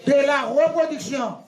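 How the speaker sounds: measured chunks, pausing for the group to echo; feed each phrase to be repeated; teacher drilling a definition; leading a recitation. Shown as a demonstration. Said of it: "répétez plus fort".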